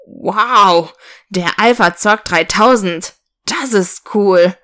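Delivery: put-on mildly awed boy calling out; lightly acted boyish enthusiasm; excited exclamation. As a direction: draw out the wow in admiration. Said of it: "rief der Junge".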